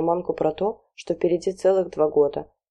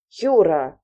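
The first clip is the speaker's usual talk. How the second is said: shout; 4 dB louder than usual. Acted. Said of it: "закричала на мужа Галина Семёновна".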